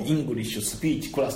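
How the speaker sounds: slow katakana "English speech class", vowels after every consonant. Shown as a demonstration. Teacher showing katakana English to students, slow and syllabic. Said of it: "全部カタカナ語にしてね".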